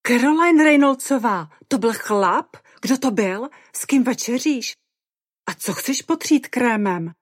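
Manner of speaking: loud, high barrage of questions; Mimi. A narrator's reading. Tipsy friend grilling Caroline about a man, loudly. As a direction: fire the questions out excitedly. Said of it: "Chrlila na mě Mimi dokonce ještě hlasitěji".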